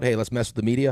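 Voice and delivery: ordinary talk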